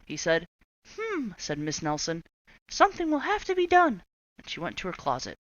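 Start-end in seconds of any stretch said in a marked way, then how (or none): 1.0-4.0 high, loud scheming voice; plotting teacher. Acted. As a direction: resolve on a plan. Miss Nelson plotting.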